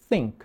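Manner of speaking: tongue-tip TH in "Think", puffed out; blown TH. Shown as a demonstration. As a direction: blow the TH at the start of "Think". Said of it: "com aquele T H sopradinho".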